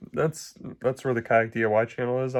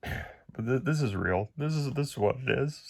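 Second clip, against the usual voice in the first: higher, choked up, near tears; holding back tears, voice cracking; voice breaking; 5 semitones higher than usual. Real, not acted. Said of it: "sorry if my voice breaks".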